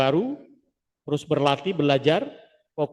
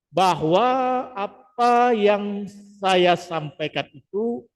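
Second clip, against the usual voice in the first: slow and measured, pausing between phrases; slow, paused delivery without fillers; deliberate pauses instead of fillers; 4 semitones higher, slower than usual. Shown as a demonstration. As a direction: replace each filler with a clean pause. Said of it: "Nah, kita ganti".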